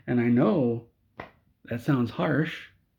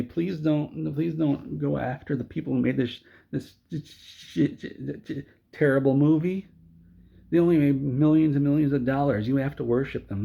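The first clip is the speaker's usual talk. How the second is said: higher, whiny mock plea; mock pleading studio; 4 semitones higher than usual. Mocking DC filmmakers begging fans to spare them, higher whiny plea. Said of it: "And then they say".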